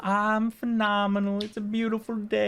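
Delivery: a breezy vendor, pleased with life; vendor woman's voice. Acted. Vendor greets the party cheerfully, lightly pitched.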